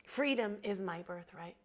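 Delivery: husky, catching throat; words catch on a frog in the throat. Real, not acted. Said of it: "I have a frog in my throat".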